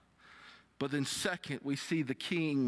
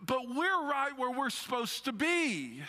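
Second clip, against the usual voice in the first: earnest rebuke; 6 semitones higher than usual. Retold or imitated. Criminal rebuking the other criminal, raised earnest voice. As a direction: rebuke the scoffer with conviction. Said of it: "He said".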